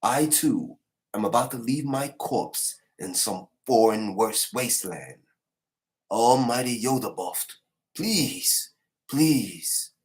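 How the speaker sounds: pleading, pitch climbing on please; dying knight's plea. Retold or imitated. Anime recapper voicing a dying knight, pleading. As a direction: beg the god with his last breath.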